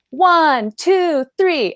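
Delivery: high, bright countdown to lead the crowd; mock cheerleader countdown. Server mocking the taco pizza routine, high and chirpy. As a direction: count it off like a hyped restaurant host. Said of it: "you were supposed to go".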